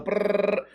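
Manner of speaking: rolled "brrr" trill; sustained rolled-lip or tongue noise; imitated pouring noise. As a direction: trill the sound of salt pouring. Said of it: "has salt in this hand and go".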